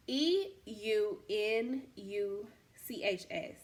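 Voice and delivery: slowly spelling the word letter by letter. Shown as a demonstration. Unsure reader spelling out a hard Bible word, letter by letter slowly. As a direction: sound out each letter of the word, slow. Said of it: "I don't know how to say this word".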